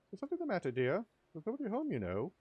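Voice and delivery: a hint of a gossipy old lady; old woman voice.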